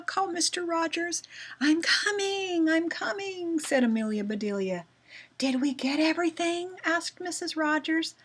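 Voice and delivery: lively storybook dialogue, pitched high and animated; reading like talking. Shown as a demonstration. Teacher shows pupils how to read like talking, animated and high. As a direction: act out the characters as if really talking. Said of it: "reading it like I was talking".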